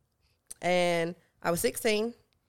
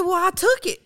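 retold panic; 10 semitones higher, 6 dB louder than usual. Retelling panicked exchange with uncle.

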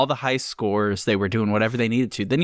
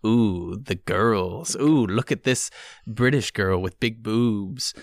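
mock leering gamer; slower than usual. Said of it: "it was like".

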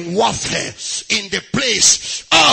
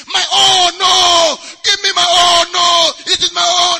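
put-on higher, shouted child's screaming; 7 semitones higher, 7 dB louder than usual. Preacher acting a toddler fighting for his toy, screaming. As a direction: scream it like a kid whose toy is taken. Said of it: "He'll be screaming".

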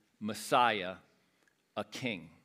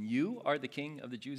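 mocking question; 3 semitones higher than usual. Shown as a demonstration. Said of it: "it's mocking".

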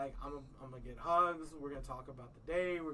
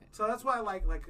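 higher and louder, pushing the point; louder restart; 6 semitones higher, 10 dB louder than usual. Real, not acted. Friend on podcast restarting his point louder.

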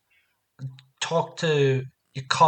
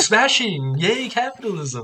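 higher, playful mock British cheer; Austin Powers impression; 5 semitones higher, slower than usual. Cohost echoing the spy's capitalism cheer, playful mimicry. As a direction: swoop up in hammy swinger style.

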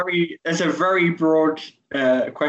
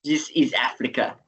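African accent imitation; 3 semitones lower, 3 dB quieter than usual. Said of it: "it's not great".

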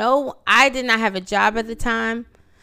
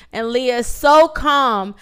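ordinary talk

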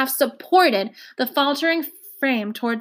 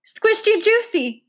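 1 hysterical giggle; 10 semitones higher, 3 dB louder, slower than usual. A narrator's reading. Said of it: "hysterical giggle".

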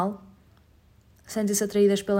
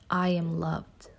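slow affirmation; 2 semitones lower, much slower than usual. Shown as a demonstration. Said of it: "Say it with me".

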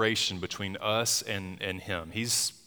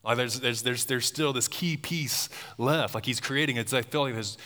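excited; 3 semitones higher than usual. Real, not acted. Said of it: "building of excitement".

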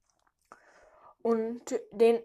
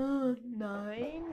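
ordinary talk

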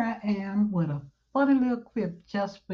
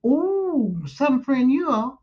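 offended whisper; 4 semitones higher, 3 dB louder, slower than usual. Acted. Offended at friend's jab.

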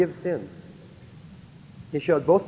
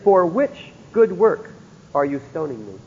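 slow, louder on good work; slow quoted question; 2 semitones higher, 3 dB louder than usual. Retold or imitated. Jesus asks the crowd, slow and pointed. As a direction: draw out for which good work. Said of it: "And he said".

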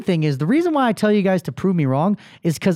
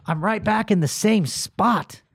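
hungover groan. Retold or imitated. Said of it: "wake up in the morning and be like".

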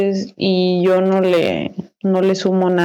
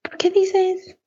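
mock surprise; 12 semitones higher, much slower than usual. Friend's surprised reply, acted.

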